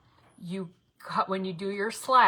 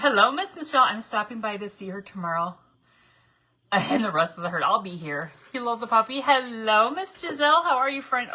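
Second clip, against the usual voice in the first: dog greeting; 3 semitones higher, 5 dB louder than usual. Real, not acted. Greeting dogs.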